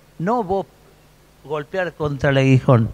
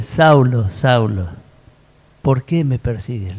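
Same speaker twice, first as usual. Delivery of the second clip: voz del cielo levemente actuada, más grave; 4 semitones lower than usual. Acted. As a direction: baja un poco el tono, como llamando desde el cielo. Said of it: "Esa voz". (un toque de voz celestial grave, en español: "voz grave del cielo")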